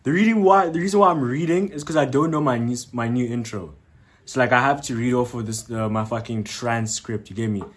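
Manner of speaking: talking round a retainer; speech slurred by a retainer; wearing a retainer. Real, not acted. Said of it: "I still have my retainers in".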